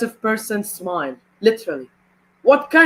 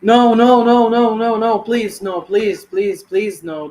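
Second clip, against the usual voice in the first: anguished denial; slower than usual. Real, not acted. Begging against Charlotte's record.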